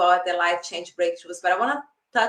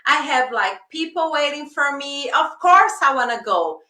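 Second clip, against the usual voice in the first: higher-pitched mock protest; arguing back; 5 semitones higher, 3 dB louder than usual. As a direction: reason your way out of the warning. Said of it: "I start reasoning".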